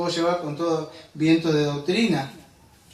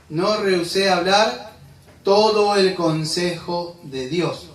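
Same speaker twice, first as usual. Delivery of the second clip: slow, weighty scripture quote with each word laid down; drawn-out preaching emphasis; slow solemn quote; 4 dB louder, slower than usual. Acted. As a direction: quote Paul slowly, letting it sink in. Preacher quoting Paul emphatically.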